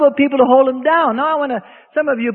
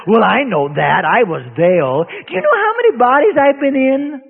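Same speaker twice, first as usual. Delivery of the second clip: demon voice. Retold or imitated. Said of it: "the voice came out of him and said".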